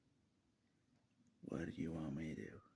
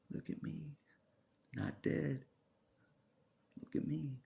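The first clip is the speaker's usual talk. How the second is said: high mock taunt; sing-song gloat at them; 9 semitones higher, slower than usual. To the enemy, a high mocking taunt. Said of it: "That's how you taunt the enemy".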